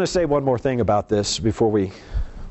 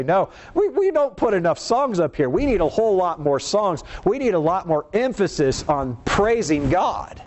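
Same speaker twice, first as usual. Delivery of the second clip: lightly voiced song leaders, pitched higher; mock complaint; 6 semitones higher than usual.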